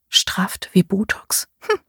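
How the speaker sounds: whispered thought. A narrator's reading. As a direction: breathe it out quietly.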